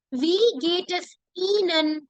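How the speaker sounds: "Wie geht es Ihnen" said slowly, each word clear; slow teacher demo of "Wie geht es Ihnen"; slow model. Shown as a demonstration. Teacher modelling the formal question for class, slowly. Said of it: "she would say".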